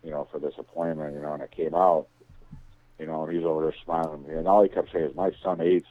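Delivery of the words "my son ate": put-on Italian accent. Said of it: "he's got the heavy Italian accent".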